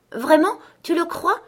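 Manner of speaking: high, loud and eager; a girl bursting with hope; a little girl crying out to the crow in high hope; excited cry. A narrator's reading. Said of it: "cria la petite fille".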